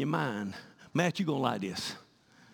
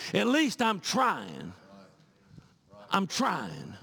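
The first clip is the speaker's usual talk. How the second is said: imitating preacher; 3 semitones higher, much slower than usual. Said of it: "like Preacher Buddy preached".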